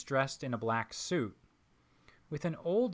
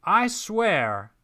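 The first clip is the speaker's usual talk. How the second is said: loud, higher Southern threat; angry threat; 8 semitones higher, 10 dB louder than usual. Acted. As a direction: swear it through clenched anger. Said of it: "the man in white frowns".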